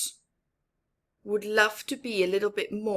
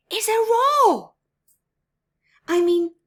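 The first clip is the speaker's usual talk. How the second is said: mock roar; 13 semitones higher, 9 dB louder than usual. Mouse wants a roar.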